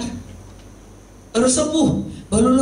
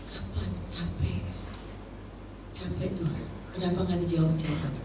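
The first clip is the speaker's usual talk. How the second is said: weary complaint; 2 semitones lower, 7 dB quieter than usual. Retold or imitated. Acted weary prayer after years waiting.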